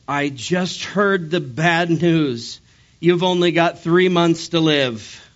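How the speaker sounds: hammed-up distraught wife, drawn out; mock sobbing. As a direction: wail it out as a wife pretending to be in tears. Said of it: "and she's sobbing".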